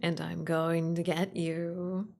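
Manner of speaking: slow, teasing monster threat; creepy playful under bed whisper. Pretend. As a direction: draw it out, playfully menacing. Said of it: "the thing under your bed".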